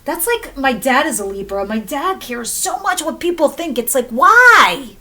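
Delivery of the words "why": loud, long-stretched exasperated wail; big drawn-out exasperation; exasperated outcry. Acted. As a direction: cry it out, stretching the word. Exasperated at dad's worrying.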